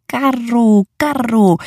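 put-on a little girl calling playfully through the house. A narrator's reading. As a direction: call out while running through the house. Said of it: "wołając".

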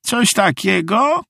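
very high, slow character voice; high, halting, effortful lady; straining with effort. A narrator's reading. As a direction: draw the words out as you pull. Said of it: "pociągnięcie".

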